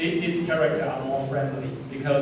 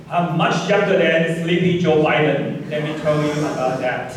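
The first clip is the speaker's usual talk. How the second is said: loud, slow politician's boast, lightly imitated; Donald Trump; 6 dB louder than usual. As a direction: lightly mimic a bragging politician, drawn out and loud. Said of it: "This is a typical Donald Trump language".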